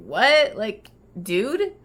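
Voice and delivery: a mild puzzled "What? Like, dude?" with a rising end; lightly imitating friends who can't believe she said "dude"; half-hearted baffled question; confused echo. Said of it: "And they're like".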